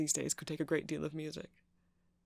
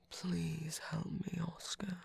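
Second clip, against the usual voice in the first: mock plea; slower than usual. Shopkeeper obliges Oscar with a plea.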